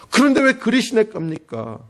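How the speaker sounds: building indignant protest; rising protest. Retold or imitated. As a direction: push the why harder. Elijah's complaint rising.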